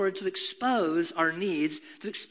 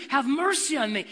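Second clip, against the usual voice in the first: crying out; 5 semitones higher than usual. Retold or imitated. Blind man cries out.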